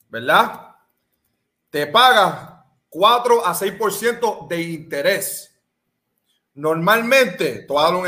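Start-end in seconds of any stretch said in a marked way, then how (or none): 1.7-5.5 slow emphatic repeat. Shown as a demonstration. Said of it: "Déjame decir eso otra vez".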